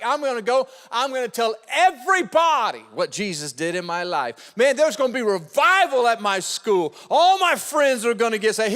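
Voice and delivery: put-on eager, fired-up teen voice; passionate convert. Youth pastor quoting a fired-up teen convert, excited. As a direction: act out the excited new convert. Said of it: "He was so passionate".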